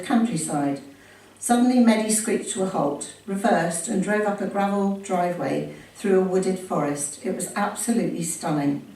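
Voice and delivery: measured read-aloud storytelling voice; story narration. A narrator's reading. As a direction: read the memoir out clearly to an audience. Reads memoir aloud to audience.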